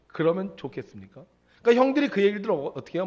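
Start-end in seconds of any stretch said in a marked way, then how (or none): none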